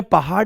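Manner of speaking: पहाड़ mispronounced as पहाड, with a stop; hard ड in पहाड़. Shown as a demonstration. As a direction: end पहाड़ on a hard ड, no flap. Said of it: "आपको ड बोलना है ना". (पहाड़ को बिना नुक्ते के पहाड बोलें)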